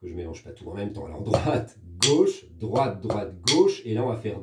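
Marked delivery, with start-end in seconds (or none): 1.1-3.8 spaced-out words on the beat, GAUCHE brought out; rhythmic sticking demo. Shown as a demonstration. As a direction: recite DROITE and GAUCHE in time to the drum pattern. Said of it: "Donc le doigté".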